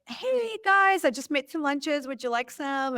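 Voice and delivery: perky retold hello with a lifted pitch; cheery greeting. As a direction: sing it out like a happy volunteer. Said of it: "and I'm like".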